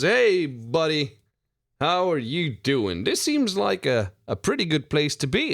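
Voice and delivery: friendly barkeep greeting a regular; bartender voice. Acted. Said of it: "Bartender says".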